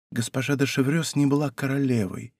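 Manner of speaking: тихо, почти шёпотом, на выдохе; выдохнуть признание совсем тихо. A narrator's reading. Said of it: "прошептала Анна Австрийская". (королева тихо шепчет Бекингему — почти шёпотом)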